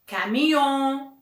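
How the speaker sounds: caminhão with a long final stressed syllable; stress on last syllable. Shown as a demonstration. Teacher shows the class the accent on the end, final stress. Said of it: "o acento é no on".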